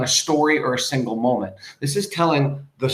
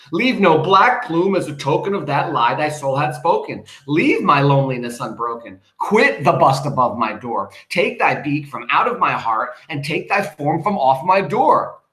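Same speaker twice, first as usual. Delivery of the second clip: angry dismissal; 3 semitones higher, 5 dB louder than usual. Acted. Narrator banishing the raven.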